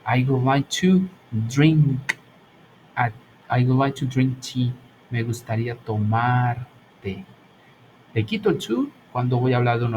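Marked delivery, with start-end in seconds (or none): 0.0-4.7 slow example sentence. Shown as a demonstration. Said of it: "Y digo".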